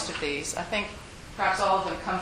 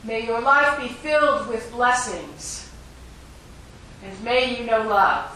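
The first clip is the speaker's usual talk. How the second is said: calling out blessings; 2 semitones higher, 4 dB louder than usual. Acted. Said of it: "he was calling after the man".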